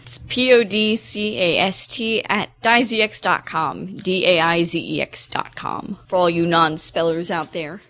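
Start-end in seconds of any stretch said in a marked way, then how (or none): 0.0-6.0 letters P O D C A S T spelled one by one, slowly; spelling it out. Shown as a demonstration. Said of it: "I'll spell".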